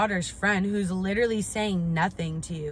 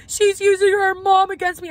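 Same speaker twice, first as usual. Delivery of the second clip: much higher and louder whiny mock complaint; mocking the mom; 11 semitones higher, 9 dB louder than usual. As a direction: ham up her outraged whine. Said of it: "This lady starts going".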